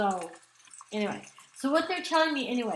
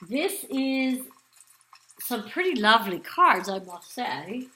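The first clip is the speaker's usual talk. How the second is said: lightly put-on English accent; playful mock English accent, barely held; a jokey hint of an English accent; fake English accent; 3 dB louder than usual. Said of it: "that was my fake English accent".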